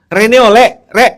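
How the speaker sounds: loud, high Surabaya Javanese call; coarse Surabaya dialect yell; Surabaya accent. Retold or imitated. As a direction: shout it like a Surabaya local. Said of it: "itu kan Surabayaan".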